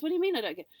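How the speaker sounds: high exasperated retort; husband behind the wheel, high exasperated retort; irritated husband. Retold or imitated. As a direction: snap back, baffled and annoyed. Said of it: "He goes".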